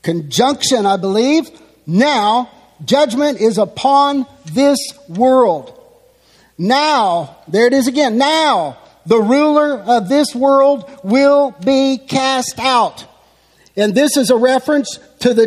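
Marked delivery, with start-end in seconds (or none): 1.8-5.7 "Now" set apart, then slow, weighty words; deliberate, emphatic reading of "Now, judgment is upon this world"; emphatic quote. Acted. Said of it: "is emphatic". 8.2-13.0 "Now" set apart, the rest slow and measured; deliberate, emphatic reading of "the ruler of this world will be cast out"; emphatic quote. Acted. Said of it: "is emphatic".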